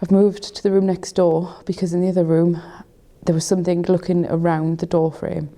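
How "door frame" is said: hushed whisper in the dark; whispering while hiding. Real, not acted. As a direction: whisper so nothing hears you. Hiding in dark, footsteps outside.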